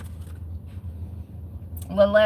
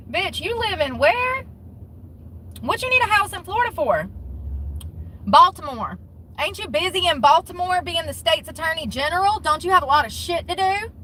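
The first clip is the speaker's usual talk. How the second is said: incredulous mock; 5 semitones higher than usual. Real, not acted. Mocking the official, incredulous.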